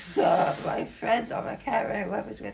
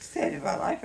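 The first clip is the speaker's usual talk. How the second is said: retold tearful realisation; 6 semitones higher than usual. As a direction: relive an overwhelmed moment, voice pitched way up. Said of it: "I start crying again".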